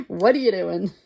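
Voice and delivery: laughing mock scolding. Laughingly scolds rabbit in retelling.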